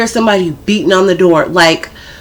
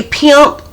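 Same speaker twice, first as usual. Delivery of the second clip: "pimp" punched with extra force on its ending; emphasized word; 5 semitones higher than usual. Shown as a demonstration. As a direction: lean hard on "pimp". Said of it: "she put an extra imp up in there".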